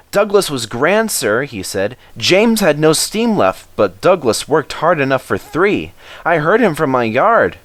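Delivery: high, earnest engine voice; Edward praising. Acted. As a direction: speak up for Douglas.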